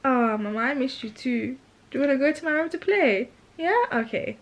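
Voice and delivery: imitated child, high and coaxing; big sister to baby. Big sister inviting the baby to play, imitated high coaxing. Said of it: "She'll be like".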